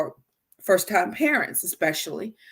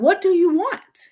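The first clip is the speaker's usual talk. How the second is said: put-on high, loud, drawn-out demand to a toddler; a fed-up parent pressing a whining child; exasperated parent; 11 semitones higher, 6 dB louder than usual.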